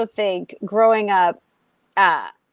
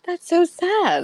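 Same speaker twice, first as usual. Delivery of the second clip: mock sympathy; 8 semitones higher, slower than usual. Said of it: "they go".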